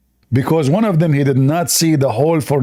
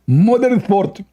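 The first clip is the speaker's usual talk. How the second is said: higher mock voice repeating the term; a hint of a smug lecturer; Zakir Naik; 5 semitones higher, slower than usual. Answering his own mock question, lightly voiced and higher. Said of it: "Oh, it's called what?".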